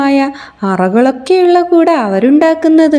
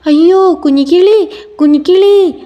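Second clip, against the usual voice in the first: higher, louder cry of alarm; loud alarmed call; 4 semitones higher than usual. Acted. Parrot sees the chick fall, loud higher alarmed call. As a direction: shout the chick's name in fright. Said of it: "ഉറക്കെ വിളിച്ചു".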